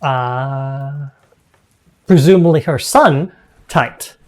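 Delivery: game master's measured narration; storyteller describing a dining hall; scene setting. Acted. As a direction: read out the room description to the players.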